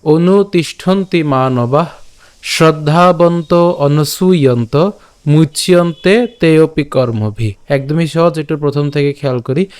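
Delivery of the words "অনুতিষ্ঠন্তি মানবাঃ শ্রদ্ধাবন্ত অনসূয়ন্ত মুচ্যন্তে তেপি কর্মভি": slow, measured chanting of the verse, each syllable clear; teacher reciting a Sanskrit verse, unhurried; slow Sanskrit recitation. Shown as a demonstration. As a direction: recite the shloka slowly and carefully. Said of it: "আজকের শ্লোকটি হলো".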